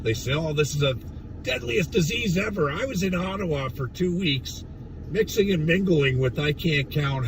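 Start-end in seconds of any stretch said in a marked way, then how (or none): none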